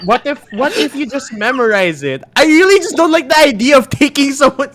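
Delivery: high, pleading voice in your head; whispery telepathic voice. Acted. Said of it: "This is the strange voice in your head".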